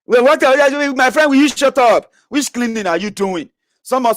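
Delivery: very high, loud scolding caricature; mocking critics. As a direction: squeal it like an outraged sycophant. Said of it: "what the Abobakus are saying is that".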